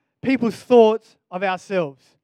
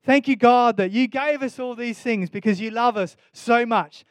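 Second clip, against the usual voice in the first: heartfelt prayer. Real, not acted. Preacher thanking God before the congregation, sincerely. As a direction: pray it out with open gratitude. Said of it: "it makes me go".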